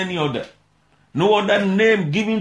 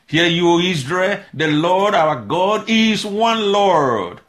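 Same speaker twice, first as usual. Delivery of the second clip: slow, weighty reading of the verse; solemn scripture quote; 2 semitones higher, slower than usual. Acted. Preacher to congregation, slow solemn scripture reading. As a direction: lay the verse down slowly and solemnly.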